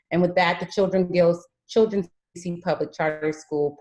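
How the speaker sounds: speaking around a new retainer; words slightly distorted by a retainer; wearing a retainer. Real, not acted. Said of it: "my words sound distorted".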